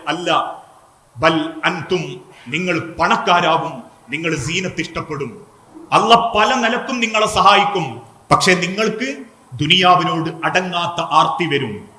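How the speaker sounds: low, measured, mildly sorrowful retelling; tearful reply. Retold or imitated. Preacher voicing the Prophet's warning to his companions, mildly tearful. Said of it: "തിരിച്ചു പറഞ്ഞു കണ്ണീരോടെ".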